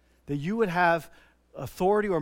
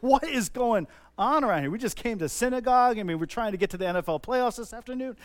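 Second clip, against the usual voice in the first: raised, higher-pitched mock bewilderment; bewildered crowd; 4 semitones higher, 4 dB louder than usual. Amazed synagogue-goers ask each other, acted bewilderment. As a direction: protest in baffled astonishment.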